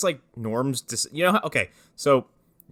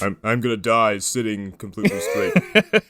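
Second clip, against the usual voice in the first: lightly voiced character imitation; Norm; 2 semitones lower than usual. Riffing on the warrior's death, lightly imitated. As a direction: put on a slight character voice. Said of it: "he talked like Norm".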